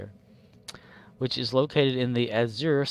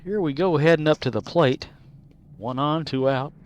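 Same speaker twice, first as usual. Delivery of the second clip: sports commentary; 3 semitones higher, 6 dB louder than usual. Pretend. Baseball commentary again.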